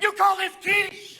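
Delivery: high, slow prissy voice with a laugh; snooty complaint. Acted. Martha Stewart sniffing at her prison lunch, prissy and slow. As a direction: look down your nose at the prison food.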